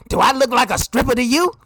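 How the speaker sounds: offended. Retold or imitated. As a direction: imitate a woman taking offence. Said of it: "she gets all offended".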